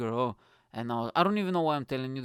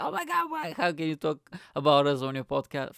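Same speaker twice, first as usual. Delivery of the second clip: imagined mates; 3 semitones higher, 5 dB louder than usual. Retold or imitated.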